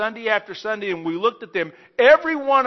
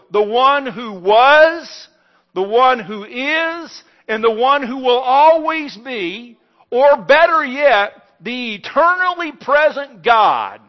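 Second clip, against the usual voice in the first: slow, louder and higher, each phrase weighed like God announcing himself; solemn divine proclamation; 5 semitones higher, 9 dB louder, slower than usual. Acted. Preacher voicing God to Moses, slow ringing proclamation. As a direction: declare it slowly as the eternal God. God's self-naming paraphrased from the bush.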